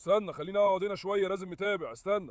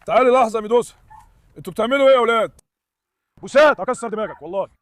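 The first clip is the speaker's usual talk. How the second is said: calling out; 7 dB louder than usual. Real, not acted. Calling dogs, scolding.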